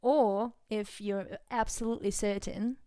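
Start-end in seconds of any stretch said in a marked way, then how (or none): 2.1-2.8 hint of an Australian accent on "certain"; accidental Australian twang; Australian-sounding. Real, not acted. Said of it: "that was very Australian".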